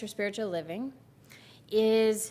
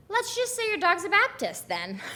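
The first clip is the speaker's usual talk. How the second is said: punchline pushed up high through a laugh; can't hold the laugh while delivering the joke; giggling out the last line; 10 semitones higher than usual. Real, not acted. Punchline of his own joke.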